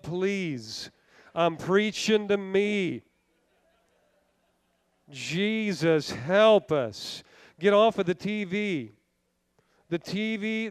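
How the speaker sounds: hushed pleading prayer. Acted. Preacher prays mid-sermon.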